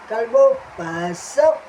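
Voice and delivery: loud showman's call for the puppet; announcer call. Acted. Host calling Kalbo onstage, loud and showy.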